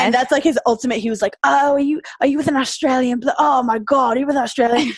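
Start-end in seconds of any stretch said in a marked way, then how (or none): 1.4-4.9 mock-outraged jealous boyfriend, a bit higher; heated retelling with stunned repetition; heated, incredulous. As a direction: imitate him getting worked up in disbelief. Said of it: "heated 'cause he loves rugby".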